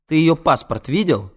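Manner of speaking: loud, high exasperated challenge; voice breaking. Acted. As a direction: demand it until the voice nearly cracks. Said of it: "Кажется, у меня срывается голос".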